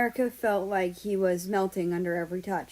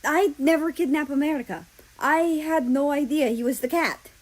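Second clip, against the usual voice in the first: growled; 7 semitones higher, 5 dB louder than usual. Acted. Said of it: "Russia growled".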